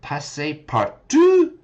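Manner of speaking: Passepartout tried slowly, rising, unsure; unsure pronunciation. Shown as a demonstration. Testing a tricky word for students. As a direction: sound out Passepartout carefully, questioning. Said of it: "the pronunciation of this word".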